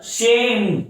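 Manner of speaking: "शेम" slow and drawn out; "शेम" as one long stressed syllable. Shown as a demonstration. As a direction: hold "शेम" long for emphasis. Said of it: "sir stress है".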